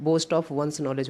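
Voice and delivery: very slow, clear reading of the corrected sentence; slow dictation. Shown as a demonstration. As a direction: spell it out slowly for students. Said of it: "यहाँ पर ... होना चाहिए था". (बहुत धीरे, साफ़ बोलना)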